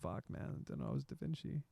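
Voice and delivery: hushed mock awe, breathy whisper; whispered punchline. Wine drinker marveling at his toilet paper, whispered. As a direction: whisper it like a stunned realization. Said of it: "You're like".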